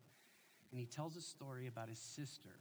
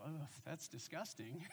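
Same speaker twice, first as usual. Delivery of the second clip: laughing quote; 3 dB quieter than usual. Retold or imitated. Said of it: "they looked at me and go".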